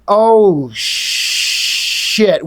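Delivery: sudden gasp of shock, then shit breathed out in a whisper. Retold or imitated. Grifter finding the children, a shocked whispered curse. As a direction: caught off guard, the curse whispered.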